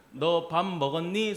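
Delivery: slow Seoul-dialect question; Seoul accent. Shown as a demonstration. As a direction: ask it slowly in standard Seoul speech. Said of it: "서울말로 한번 해주세요".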